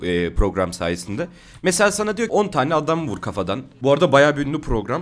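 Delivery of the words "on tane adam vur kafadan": ordinary talk, nothing marked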